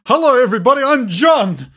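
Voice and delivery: big bright show greeting; enthusiastic greeting. Real, not acted. Enthusiastic intro.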